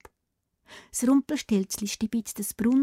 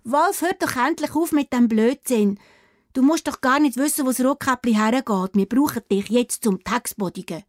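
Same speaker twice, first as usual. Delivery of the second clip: scolding; 3 semitones higher, 3 dB louder than usual. Acted. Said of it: "Da schimpft Anna".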